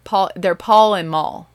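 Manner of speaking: Pa and Ma turned into "Paul" and "Maul" with an added L sound; Southern pronunciation. Shown as a demonstration. Mother showing how she says the Ingalls parents' names, Southern "Paul" and "Maul". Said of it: "that's how I pronounce it".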